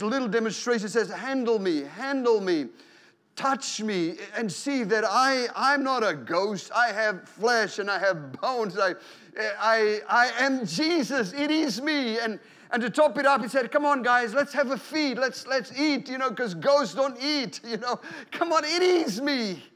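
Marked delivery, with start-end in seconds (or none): 1.1-12.2 persuading Jesus. Acted. Voicing Jesus persuading disciples. 13.7-19.6 higher, coaxing come on guys; cheerful Jesus. Acted. Jesus inviting disciples to eat.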